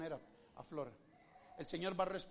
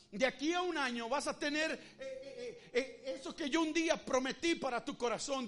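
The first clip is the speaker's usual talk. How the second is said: laughing; 4 semitones higher, 5 dB louder than usual. Real, not acted. Preacher laughs mid-promise.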